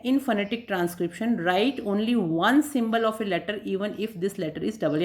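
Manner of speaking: slow, even, word by word, as notes to copy; slow dictation. Shown as a demonstration. Teacher dictating the third point to students, slow and even. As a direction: read the rule out slowly for note-taking.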